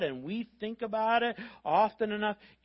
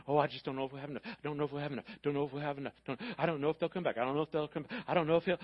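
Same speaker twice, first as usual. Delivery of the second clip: low, muttered fretting on a loop; mildly acted worrier; repetitive worrying; 3 semitones lower, much faster than usual. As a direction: fret in circles, running the phrases together. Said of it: "you think of it over and over again".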